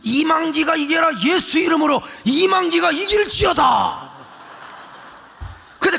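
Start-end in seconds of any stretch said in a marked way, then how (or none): 0.0-4.1 mock cheering. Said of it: "그러면 나는".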